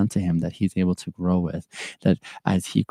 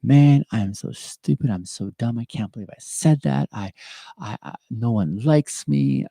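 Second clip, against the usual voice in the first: self-critical inner voice; 3 semitones higher than usual. Retold or imitated. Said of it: "narrative ... goes something along this line".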